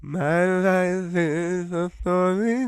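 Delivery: slow, high, theatrical reading; hammed-up dramatic monologue; dramatic performance. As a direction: recite it like a grand confession. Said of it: "That was a really moving performance".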